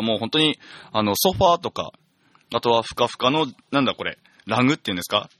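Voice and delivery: broad Tsugaru dialect, casual chat; thick Tsugaru dialect. Real, not acted. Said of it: "ここからは津軽弁で喋らせていただく".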